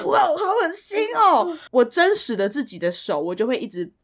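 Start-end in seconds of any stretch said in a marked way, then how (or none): 0.1-1.5 high-pitched drawn-out disgust; grossed out. Retold or imitated. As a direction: recoil with a long, high 'eww'. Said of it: "我就觉得".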